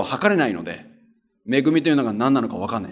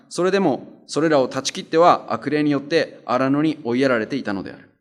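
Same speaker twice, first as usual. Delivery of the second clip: measured Bible reading voice; scripture reading. Acted. Pastor reads scripture to church, measured reading. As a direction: read the passage steadily to the congregation.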